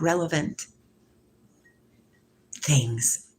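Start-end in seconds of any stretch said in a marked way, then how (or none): 2.6-3.3 "Things." dropped low and drawn out; deep slow "Things". Shown as a demonstration. A low drawn-out "Things." mused to her viewers. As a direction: say "Things." low, letting it fall.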